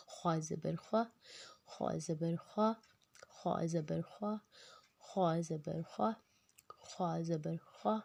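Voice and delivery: خوا said thick from the throat, short vowel; heavy خوا. Shown as a demonstration. Teacher drilling heavy letters, thick خوا. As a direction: give خوا a full heavy sound but a short zabar. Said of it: "ہم اس کو موٹا ضرور کریں گے".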